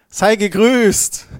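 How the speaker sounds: slow, high, loud and drawn out; awed angel greeting. Pretend. Preacher voices the angel appearing in the bedroom, slow and loud. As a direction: let the angel's greeting ring out slowly.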